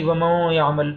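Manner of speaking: slow ومن یعمل with n hidden in a hum; hidden noon. Shown as a demonstration. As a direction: hide the n of ومن in the nose before یعمل. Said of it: "نہ ہم اخفا کر رہے ہیں". (ومن یعمل میں نون چھپا کر پڑھیں)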